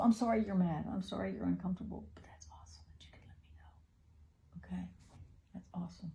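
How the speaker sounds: soft reassurance. Real, not acted. Mother reassures her angry son, softly, almost whispering. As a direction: hush him gently as he frets.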